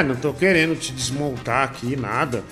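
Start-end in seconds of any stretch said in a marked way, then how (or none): none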